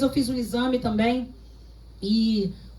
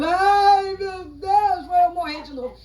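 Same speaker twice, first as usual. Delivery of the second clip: mock wailing mourner; 6 semitones higher, slower than usual. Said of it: "fiquei igual as carpideiras de Jairo".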